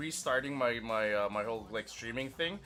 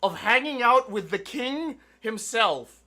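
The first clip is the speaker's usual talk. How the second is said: haughty king; 6 semitones higher, 7 dB louder than usual. Pretend. Streamer playing king over chat, grandly haughty. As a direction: lord it over the lowly chat.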